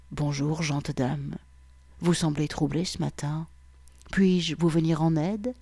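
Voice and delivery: a hint of a low, sensual gentleman; lightly voiced seductive stranger; deep sensual man. Officer greeting the troubled woman, lightly voiced sensual man. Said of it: "avec la voix la plus grave et la plus sensuelle".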